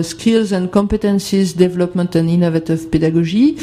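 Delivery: English title read with a strong French accent. Real, not acted. French presenter reading an English report title, French-accented English. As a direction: read the English words with a thick French accent, self-mocking. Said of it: "avec mon super accent anglais".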